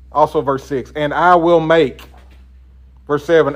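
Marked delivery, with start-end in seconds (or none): 1.0-2.0 slow, I weighted and falling; slow, leaning on I, God as the doer; stress on I. Shown as a demonstration. Teacher counting God's promises, slow with I pressed. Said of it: "how many times God says".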